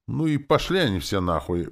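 hammed-up grand cry; pathetic exclamation. A narrator's reading. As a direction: fling it out with theatrical scorn. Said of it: "патетически воскликнул зомби".

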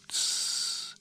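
unvoiced shh; whispered shh to quiet him; whispered hush. A narrator's reading. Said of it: "шепнула она".

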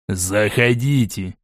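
ordinary delivery, nothing marked

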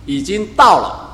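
提高嗓门，像耶稣对百姓大声宣告; 一句句往上顶，带着急切责备; 激动宣讲. Retold or imitated. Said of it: "他说". (耶稣对众人宣讲，声音高亢响亮)

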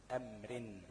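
أمر read with a final -in, amrin; tanween on أمر. Shown as a demonstration. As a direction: sound the kasra tanween on أمر as "rin". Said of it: "بتنوين". (نطق أمر بتنوين الكسر)

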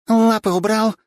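high, loud furious snap; vixen's angry snarl. A narrator's reading. Katya snarling at Bigby to get his paws off. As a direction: bite it out with fury. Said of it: "злобно прорычала лисица".

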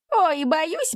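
hammed-up wail of fake fear; mock wailing. A narrator's reading. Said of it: "запричитал первый". (шутливо причитает, взлетая на «ой»)

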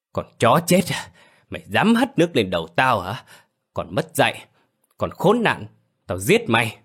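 roaring in fury, high; gầm lớn. Acted. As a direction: roar like a wild beast. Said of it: "gầm lớn như thú hoang". (gầm như thú hoang)

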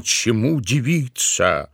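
ordinary delivery, nothing marked

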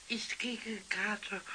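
whispered secret. Acted. Drunk Pumuckl tells Eder his secret, whispered. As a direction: breathe it as a secret.

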